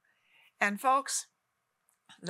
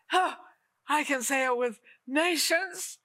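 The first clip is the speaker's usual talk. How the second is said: breathy awed line; 5 semitones higher, slower than usual. Acted. Testimony, breathy sigh.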